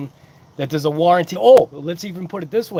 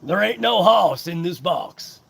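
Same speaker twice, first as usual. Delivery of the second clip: slow, drawn-out Texan drawl; amateur Southern cowboy accent; mock Texan accent. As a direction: put on a rough Southern accent, taking your time. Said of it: "a proper Southern accent".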